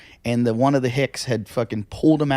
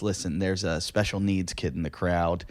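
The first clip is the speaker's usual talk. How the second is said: hushed warning; 6 semitones lower, 10 dB quieter than usual. Retold or imitated. Club owner warns comic.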